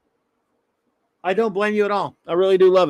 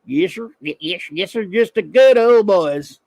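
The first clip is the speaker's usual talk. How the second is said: put-on Southern good old boy; 3 dB louder than usual. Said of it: "Bubba Clobby, yes, that's me".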